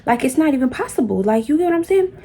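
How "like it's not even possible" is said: going off. Retold or imitated. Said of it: "I'm going off 'cause I'm irritated".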